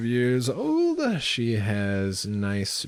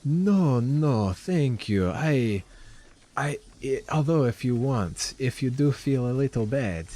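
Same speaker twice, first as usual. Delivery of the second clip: put-on accented shopkeeper, hesitant then lilting up; shopkeeper Lenine, coaxing; 3 semitones higher than usual. Shopkeeper asks heroes to carry crates inside, coaxing accented lilt. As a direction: coax a favor in the character's accent.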